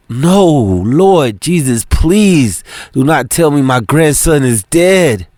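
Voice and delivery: lightly voiced pleading grandmother; praying. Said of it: "Miss Margie prayed".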